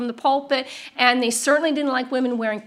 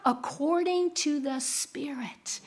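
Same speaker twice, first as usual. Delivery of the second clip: whispered point; 9 dB quieter, slower than usual. Acted. Sudden intimate whispered point.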